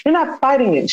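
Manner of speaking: mild mock frustration, pushing her mom to fight; a touch of retold anger at her mother. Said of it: "was mad".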